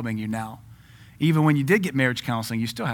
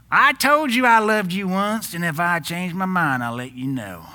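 put-on redneck Tennessee accent; 5 semitones higher, 4 dB louder than usual. Preacher mocking a husband who won't say I love you, in a redneck Tennessee accent. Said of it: "you always gotta do the redneck Tennessee accent".

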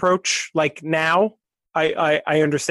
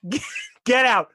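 disgusted shopkeeper; 4 semitones higher, slower than usual. Acted.

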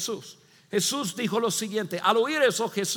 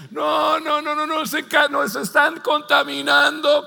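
louder, higher cries of no, no, no; scandalized shout; 6 semitones higher, 5 dB louder than usual. Retold or imitated. Disciples in the corner protesting, shouting in scandal. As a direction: protest loudly like offended disciples.

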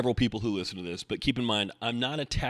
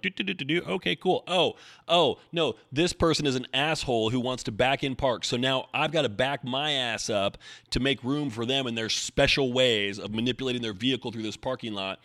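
mocking other drivers; 2 semitones higher than usual. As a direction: mimic a driver who is humming along, then gets annoyed. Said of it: "people are like".

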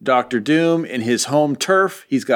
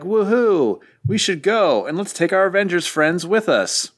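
higher-pitched, eager cheer; high, upbeat mock enthusiasm; acted excitement; 6 semitones higher than usual. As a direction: play an excited whoop and keep it up. Quicksilver's eager reaction, acted.

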